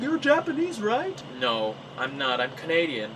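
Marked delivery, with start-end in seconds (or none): 0.0-1.2 curious locals. Retold or imitated. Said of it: "everyone there was like".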